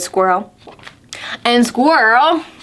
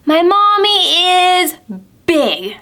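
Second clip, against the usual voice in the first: little owl; 6 semitones higher than usual. Acted. Owlet describing mommy to squirrel, lightly high small voice. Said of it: "said Little Owl".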